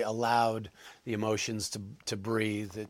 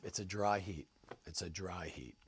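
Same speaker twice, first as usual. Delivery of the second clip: imitated low-key muttering, trailing softer; mumbling to self; 4 semitones lower, 7 dB quieter than usual. Actor recalls walking to a scorching set, mumbling to himself. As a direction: mutter it as if reassuring yourself, fading away. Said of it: "I just kept mumbling to myself".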